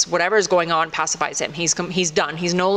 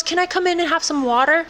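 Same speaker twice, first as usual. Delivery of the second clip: put-on old lady voice; 8 semitones higher than usual. Old woman asks to come in.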